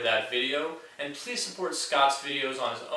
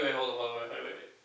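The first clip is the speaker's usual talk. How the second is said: normal talking voice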